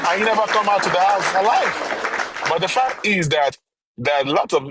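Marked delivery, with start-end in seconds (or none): 0.1-2.1 emphatic raised claim. Real, not acted. Emphatic claim about a singer's death.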